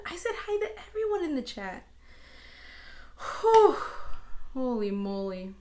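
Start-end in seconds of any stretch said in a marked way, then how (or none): 3.4-5.5 out of breath. Real, not acted. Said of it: "I need to catch my breath".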